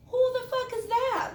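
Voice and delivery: high, loud, slow mocking challenge; smart-ass demand. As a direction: sneer it out like a bratty kid.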